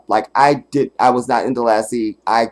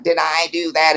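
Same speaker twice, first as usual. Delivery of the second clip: Urkel impression; 5 semitones higher than usual. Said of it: "sounded exactly like him".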